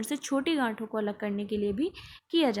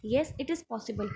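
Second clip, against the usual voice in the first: slow emphatic answer; much slower than usual. Shown as a demonstration. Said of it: "teacher stresses answer slowly".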